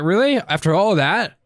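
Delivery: high, disbelieving really; incredulous. Retold or imitated. Complaining to friend about bank, disbelieving. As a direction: after all that effort, incredulous.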